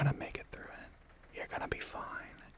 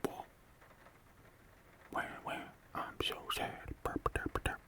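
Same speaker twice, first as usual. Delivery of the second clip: mock sulk. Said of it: "sit there and be like".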